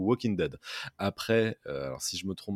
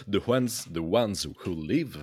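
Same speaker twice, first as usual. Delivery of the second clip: English title in a French accent; real French accent on English words; 3 dB louder than usual. Real, not acted. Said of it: "désolé pour mon accent anglais".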